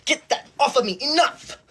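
high sudden snap of outrage; high-pitched indignant enough; squeaky snap. Acted. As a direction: yelp it like a prissy hall monitor. Scolding persona.

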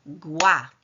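"Igła" as two beats, i - gła, with a gap; split into syllables. Shown as a demonstration. Teacher clapping words into syllables with pupils, "Igła" syllable by syllable. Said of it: "Podzielmy teraz każdy z tych wyrazów na sylaby".

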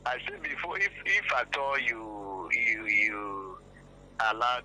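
loud, slow scolding warning; stern lecture. Real, not acted.

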